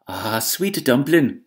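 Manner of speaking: slow, sweet coo; wife soothing her baby-husband, tender. Acted.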